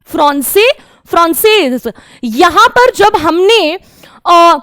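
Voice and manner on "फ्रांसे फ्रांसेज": फ्रांसे without s, then फ्रांसेज with a z; masculine then feminine. Shown as a demonstration. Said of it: "थोड़ा सा pronunciation में difference है ना".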